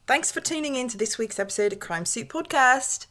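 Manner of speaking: put-on a wobbly stab at an Australian accent that drifts elsewhere; half-hearted Australian sign-off; attempted Australian accent. Closing the podcast at co-host's request, shaky Australian accent. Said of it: "You should do it in an Australian accent".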